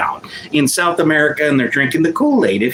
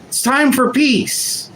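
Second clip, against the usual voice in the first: higher, slow, mock-solemn pronouncement; mock Trump line; 5 semitones higher than usual. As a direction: play it as a hammed-up tough guy holding guns. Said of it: "and he's saying".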